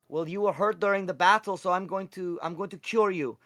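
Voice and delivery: high-pitched little cleric; voiced Pickle Juice. Pickle Juice offers to cure August, high character voice. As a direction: lift the voice high, earnestly offering help.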